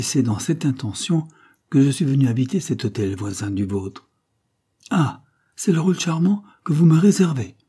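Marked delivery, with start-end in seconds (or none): 4.9-7.5 higher, scornful exclamation; supreme contempt. A narrator's reading. False duke sizing up Carmela, with sovereign contempt. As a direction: sneer at the offer with lofty disdain. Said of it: "avec un souverain mépris".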